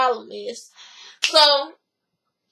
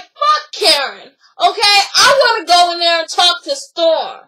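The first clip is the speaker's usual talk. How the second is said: acted angry comeback, building louder; retold defiance; 5 dB louder than usual. Retelling a woman refusing to drop it with Karen, angry. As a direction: imitate a hothead brushing off advice, getting louder.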